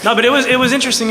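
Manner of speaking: laughing. Real, not acted. Fan laughs at prison joke.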